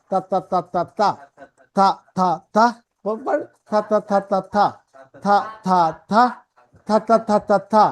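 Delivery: repeated থা syllables, tongue between the teeth; voiceless th drill. Shown as a demonstration. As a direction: drill থা as short voiceless bursts in rhythmic groups. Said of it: "theta সাইনটাকে এটা থা". (দাঁতের মাঝে জিভ রেখে শ্বাসের থা, থা)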